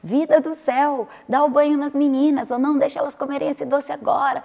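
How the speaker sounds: mock bossy wife; bossy voice message. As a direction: nag the husband by audio. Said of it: "comecei a gravar um áudio assim".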